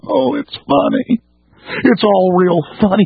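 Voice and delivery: high, slow smug scoff; mocking laugh-off. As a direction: sneer it like a dismissive yuppie. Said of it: "they just laugh".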